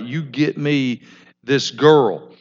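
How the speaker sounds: a slow, pushy order, not a request; demanding order. Acted. Son orders his father, mildly bossy. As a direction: insist on it, don't ask. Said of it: "it's not like he's asking his father. He's like".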